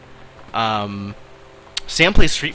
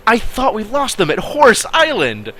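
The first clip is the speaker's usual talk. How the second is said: higher and louder mock pirate-captain shout; hammed-up yell; 10 semitones higher, 5 dB louder than usual. Captain shouting at pirates, hammed-up yell. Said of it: "She yelled".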